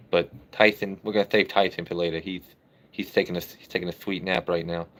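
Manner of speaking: lightly lisped, "sweet" becomes "thweet"; playful lisp. Pretend. Streamer joking about Mike Tyson napping in back, playful lisp on "sweet".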